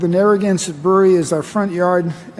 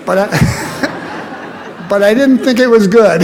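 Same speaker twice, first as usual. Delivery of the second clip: laughing while speaking; 2 semitones higher, 4 dB louder, much slower than usual. Real, not acted. Speaker laughs at remembered warning.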